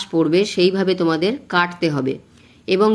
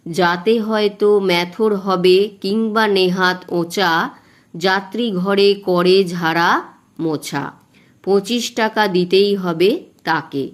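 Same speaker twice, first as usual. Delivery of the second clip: slow, measured verse reading, each foot marked; teacher reading a Bengali rhyme slowly for the class; slow poem recitation; slower than usual. Shown as a demonstration. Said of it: "এইভাবে তোমরা আগে পড়ে নেবে".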